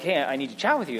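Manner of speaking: lightly sheepish, low and softened; mild impression of a sheepish bus driver. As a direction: imitate a hesitant confession, voice held down. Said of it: "kind of sheepishly".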